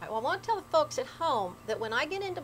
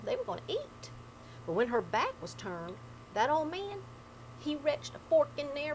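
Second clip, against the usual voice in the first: appalachian storytelling. Acted. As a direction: spin it like an old ghost tale. Grandpa's haint tale told in dialect.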